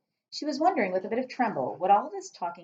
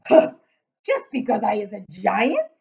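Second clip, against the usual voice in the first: shouted; 4 semitones higher, 9 dB louder than usual. Acted. Giant shouting at frightened Sophie, loud bellow. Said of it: "he shouted".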